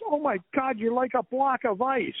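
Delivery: high-pitched mock amazement; retold astonishment. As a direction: imitate someone startled by what they just touched. Retells shocked reaction to cold skin.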